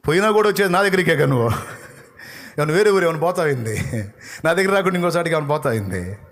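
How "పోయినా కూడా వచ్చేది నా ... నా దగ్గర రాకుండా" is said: quick, raised, loud retort; fast loud rebuke. Retold or imitated. God rebuking the one who says he is finished, loud fast. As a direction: snap back fast.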